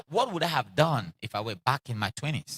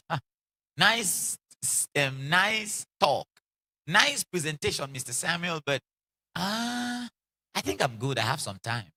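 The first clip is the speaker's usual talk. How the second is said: dismissive listener. Retold or imitated.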